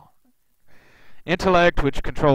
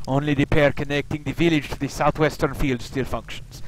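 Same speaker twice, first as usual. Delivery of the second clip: put-on Slavic Russian accent. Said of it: "given him a kind of a Slavic Russian accent".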